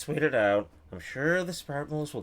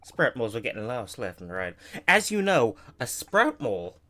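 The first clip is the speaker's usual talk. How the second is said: put-on southern accent. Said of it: "very southern".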